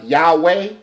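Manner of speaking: "Yahweh" as YAH-way, slow with rising end; pronunciation demo. Shown as a demonstration. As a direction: show the two glides in "Yahweh". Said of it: "You see how he did it?".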